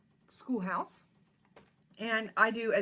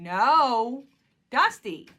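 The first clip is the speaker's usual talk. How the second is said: a real loud yell, pitched up on the name; 6 semitones higher, 14 dB louder, much slower than usual. Real, not acted. Owner yelling at her cat Dusty for scratching the door frame, sudden loud yell. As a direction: bark the cat's name to stop her cold. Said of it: "I had to yell".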